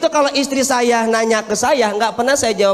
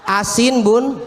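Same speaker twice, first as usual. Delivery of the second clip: blunt husband; 2 semitones higher than usual. Acted. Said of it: "Kan kata suaminya".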